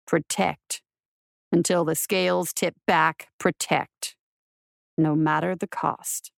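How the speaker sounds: low, gentle solemn quote. Acted. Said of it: "all I heard was her gentle voice".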